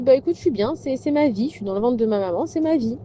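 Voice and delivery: hint of a small child's voice; lightly voiced baby. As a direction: play the unborn baby, happy where he is.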